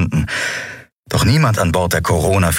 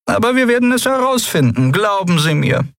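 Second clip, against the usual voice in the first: annoyed repeat; 11 semitones higher than usual. A narrator's reading. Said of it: "mochte er es nicht, unterbrochen zu werden". (verärgert und betont langsam wiederholt)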